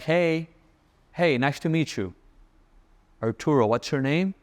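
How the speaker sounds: the better way, calm and friendly; smooth easy hello. Shown as a demonstration. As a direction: keep it easy and charming. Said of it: "It comes out a different".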